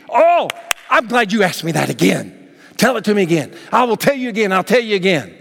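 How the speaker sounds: light, eager, glad to repeat; excited retelling. Retold or imitated. Healed man gladly repeating his story, eager. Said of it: "he's excited".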